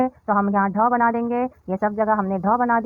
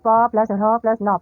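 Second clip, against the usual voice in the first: slow, each sound held apart; deliberate spelling-out for children; 4 dB louder, slower than usual. Shown as a demonstration. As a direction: spell it out slowly, piece by piece. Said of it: "शब्दांशों को मिलाकर पढ़िए".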